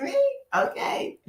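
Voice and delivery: unvoiced, hushed me okay; stunned whisper. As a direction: breathe it out in disbelief. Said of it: "I was like".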